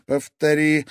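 ordinary delivery

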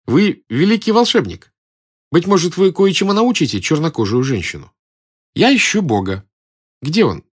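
high-pitched character voice; admiring, eager girl. A narrator's reading. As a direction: appeal to the magician in a lifted voice. Girl appeals to the conjurer.

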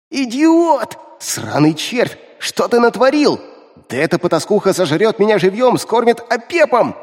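shrill panicked screaming imp; screeching imp. Acted. Imp panics, curses the hero.

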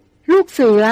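hushed surprised gasp of a word; a small awed cry; soft exclamation. A narrator's reading. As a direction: breathe it out in quiet wonder. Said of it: "ก็อุทานออกมาเบาๆ".

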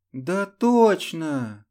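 eager high cry of certainty; insist, bright and emphatic; exclaiming. A narrator's reading. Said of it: "воскликнула Людмила". (горячее восклицание)

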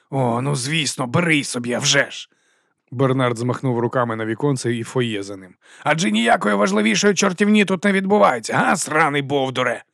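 mock-sweet sarcasm swelling to a high insult; sneer, then burst at the fool; sarcastic scolding.

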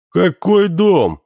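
high, slow indignant outburst; outraged, drawn-out question. A narrator's reading. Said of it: "возмутился Боренька".

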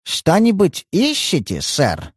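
lisping waiter, s turned to sh in «ищете, сэр»; slushy lisp on every s and sh. A narrator's reading. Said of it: "Сзади послышался шепелявый голос".

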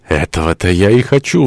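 mild impassioned exclamation; crying out. Acted. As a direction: cry out in defiance, with some restraint. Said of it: "вскричала она".

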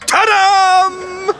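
big high showman's ta-da; triumphant fanfare. Acted. Salesman unveiling his gadget to his friend, triumphant ta-da. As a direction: unveil it like a magician. Grand reveal of product.

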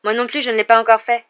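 high, loud, eager offer; delighted. A narrator's reading. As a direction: jump in with delight. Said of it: "dit Neville, ravi".

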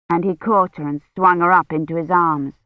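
normal talking voice

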